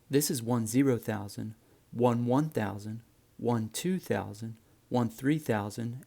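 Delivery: "one one thousand" spoken digit by digit, slow and deliberate; careful radio enunciation; digit-by-digit numbers. Shown as a demonstration. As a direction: spell each digit out slowly, radio style. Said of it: "you should enunciate like this".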